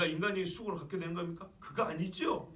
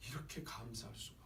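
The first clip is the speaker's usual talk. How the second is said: soft, low, thankful murmur; acted quiet thankfulness; hushed gratitude; 6 semitones lower, 11 dB quieter than usual. Preacher voicing a grateful grafted-in believer, hushed gratitude.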